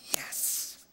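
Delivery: usual speaking voice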